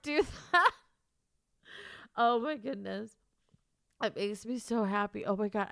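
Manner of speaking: ordinary delivery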